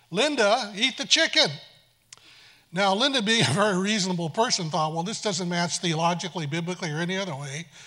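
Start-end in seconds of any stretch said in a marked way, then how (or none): 0.1-1.5 very loud, distinct, clearly enunciated, high-pitched voice. Retelling the voice linda heard when she prayed, very loud and distinct. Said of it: "very distinctly, very loudly".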